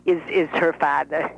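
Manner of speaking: put-on lively old Brooklyn bubby; Bubby's voice. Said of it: "This is Annie".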